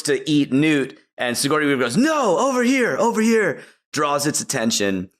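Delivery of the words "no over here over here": mock calling out. Ripley luring the Queen from Newt, a high mock call. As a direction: shout to pull its eyes away from the child.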